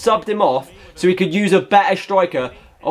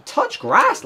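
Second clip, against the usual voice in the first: mocking jab; 13 semitones higher than usual. Real, not acted. Mocking sweaty opponents.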